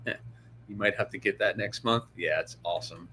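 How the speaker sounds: sleepy, soft yawn-through words. Real, not acted. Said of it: "I can't stop yawning".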